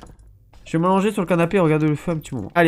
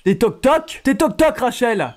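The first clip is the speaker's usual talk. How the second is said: mocking tease; 7 semitones higher, 4 dB louder, much slower than usual. Mocking the game character.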